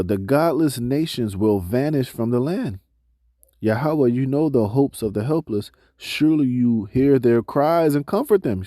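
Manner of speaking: slow, measured reading of scripture. Acted. Preacher reading scripture to the congregation, slow and measured. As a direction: read the verses out to the congregation, slowly. Reads scripture passage aloud.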